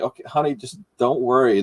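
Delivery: softly soothing a partner; gentle, hushed comfort, lightly acted; calm her down quietly; retold reassurance. Reassuring his crying wife.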